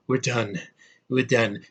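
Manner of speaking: mock a dazed tough guy, lightly; Tom Hardy mumble. Reviewer mocking actor's line, soft drugged-out mumble. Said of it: "He doesn't sound like a real man".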